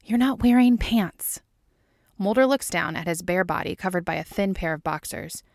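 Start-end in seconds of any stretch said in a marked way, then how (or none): 0.0-1.4 higher, louder and slow; pointed calling out. A narrator's reading. Scully stopping Mulder as he leaves without pants, pointed. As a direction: call it after him, slowly and loudly.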